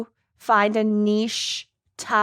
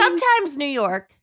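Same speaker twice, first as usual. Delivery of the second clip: put-on New York accent; 4 semitones higher than usual. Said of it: "New York grandma".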